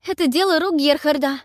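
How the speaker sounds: high, loud blurting cry; panicked exclamation. A narrator's reading. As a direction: blurt the blame out. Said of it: "вскрикнула я".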